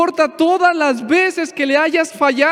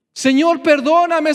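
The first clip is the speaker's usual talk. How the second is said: pleading, raised a little; clamoring plea; 3 semitones higher than usual. Retold or imitated. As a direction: beg urgently instead of chatting. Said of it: "Eso es lo que Jonás hizo".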